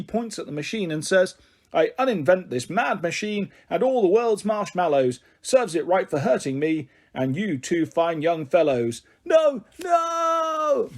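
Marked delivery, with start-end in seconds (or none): 1.7-9.0 raised, slow rhyming curse; lightly voiced stern professor; professor's angry spell. 9.2-10.9 much higher, louder desperate cry; boy crying out in dismay; shouted protest. Acted. Boys protest the uninvention.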